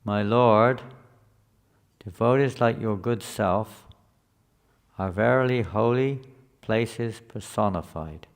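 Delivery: loud, measured reading of a translation; scripture reading. Real, not acted. Teacher reads the verse translation to the class, proclaiming it.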